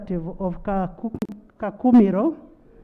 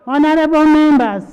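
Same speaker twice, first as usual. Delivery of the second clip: calling the House to order; 4 semitones higher, 6 dB louder than usual. Real, not acted. Speaker calling noisy House to order.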